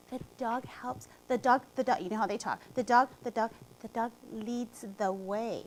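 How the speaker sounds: put-on small shy voice of a young student; tiny child voice. Little girl answering teacher about guide dog, tiny soft voice. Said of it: "a little tiny, tiny voice".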